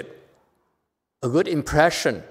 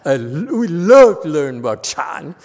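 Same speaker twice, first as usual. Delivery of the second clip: sugary mock-humble plea; mocking fake request; 4 dB louder than usual. Master imitating the young abbot, mocking false humility. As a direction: put on false eagerness to learn. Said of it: "mock them and say".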